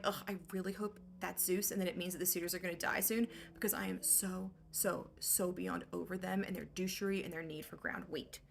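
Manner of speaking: low, soft, fed-up grumble; weary complaint. Acted. Exhausted slave girl at the mill, in a fed-up low grumble. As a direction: sound utterly over it.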